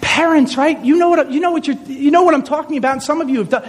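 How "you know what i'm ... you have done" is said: normal talking voice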